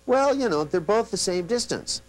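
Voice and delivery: high, unsure client voice; confused client. Retold or imitated. Client reporting back to the hypnotist, high and unsure. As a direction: sound like a client who missed the change. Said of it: "they go".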